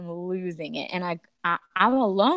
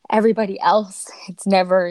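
whisper; 6 dB louder than usual. Real, not acted. Grief over a lost pregnancy.

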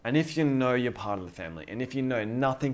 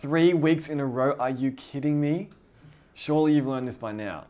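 higher, incredulous acted scolding; mock disbelief, pitched up; mock exasperation; 4 semitones higher, 4 dB louder than usual. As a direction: scold like a let-down father, hammed up. Acted exasperated God scolding a sinner.

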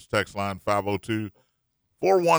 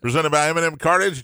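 faster, brighter announcer-style repeat; hammed-up sponsor read; 4 semitones higher, 4 dB louder, faster than usual. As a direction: punch the sponsor name like a radio announcer. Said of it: "That never gets old".

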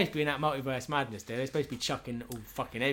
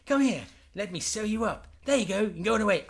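mock doctor; 8 semitones higher than usual. Doc Smith greeting a wounded patient, higher and cheery. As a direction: welcome them in like a chirpy doctor.

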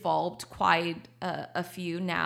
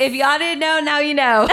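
excited reveal; 7 semitones higher, 13 dB louder than usual. Real, not acted. Announcing her news to listeners.

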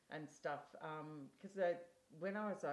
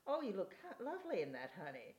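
imitated Texan accent; 4 semitones higher, faster than usual. Elderly Texas woman compliments a shopper's top, in a put-on Texan accent. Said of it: "sorry about the accent there".

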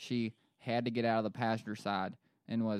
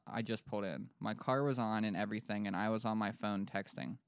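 lightly voiced Western PA witness; Western Pennsylvania accent; 5 dB quieter than usual. Witness recounting sinkhole, Western Pennsylvania accent. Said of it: "doing that to just be Western P A".

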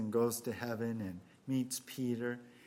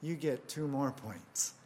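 delighted Peter; 3 semitones higher than usual. Acted. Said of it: "And Peter says".

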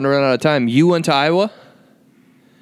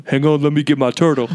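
Joe impression. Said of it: "this really deep voice when you impersonate him".

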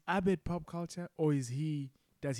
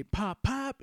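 Magnitude catchphrase; 8 semitones higher, 5 dB louder than usual. Retold or imitated. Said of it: "the kid hears Magnitude say".

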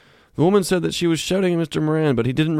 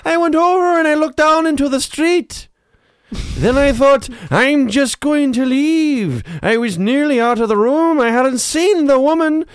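very high, loud, stretched-out character voice; drawn-out Jaws-style yarn; 14 semitones higher, 6 dB louder than usual. Acted. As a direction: spin a long tale, loud and high, drawing out words. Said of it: "You sound like you're from Jaws".

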